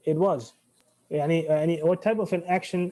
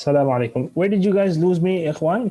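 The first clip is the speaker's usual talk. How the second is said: calling out to check the class; 6 dB louder, faster than usual. Real, not acted. Teacher calls out to silent class.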